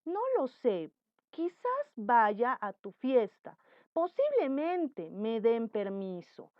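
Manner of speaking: slow, hesitant, unsure answer; doubtful reply. Shown as a demonstration. Student unsure about the party, answering slowly and doubtfully. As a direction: hedge it slowly, not committing. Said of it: "oración dubitativa".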